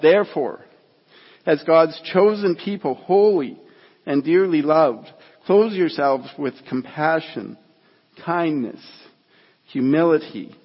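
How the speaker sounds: measured, emphatic Bible reading; deliberate pulpit reading; scripture reading. Acted. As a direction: read scripture aloud, pausing to weigh each virtue. Reads scripture to congregation.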